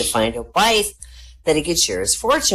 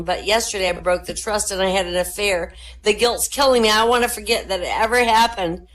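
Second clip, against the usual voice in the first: weeping woman; 4 semitones higher than usual. Acted.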